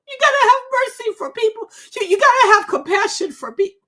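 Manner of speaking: high, loud impassioned plea; high, loud pleading for mercy. Real, not acted. Angry plea about the crash.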